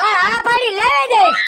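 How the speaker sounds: high, sharp comeback; angry retort. Acted. Husband retorting to his wife mid-quarrel, angry. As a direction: snap it back at her.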